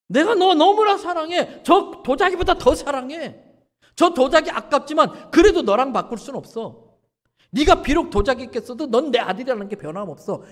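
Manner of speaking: fervent fatherly love. Retold or imitated. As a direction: pour out love for the boy.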